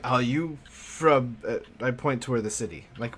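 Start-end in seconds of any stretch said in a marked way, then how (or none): 0.0-1.4 drawn-out, separate words; slow, simple question. Acted. Professor asks the girl where she is from, slowly and carefully. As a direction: ask it slowly, word by word. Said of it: "And then I'm like".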